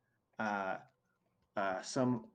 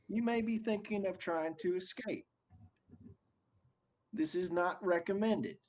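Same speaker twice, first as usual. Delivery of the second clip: much higher, booming overseer announcement; big booming voice; 8 semitones higher than usual. Acted. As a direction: boom it out like a smug overlord. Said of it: "big booming voice".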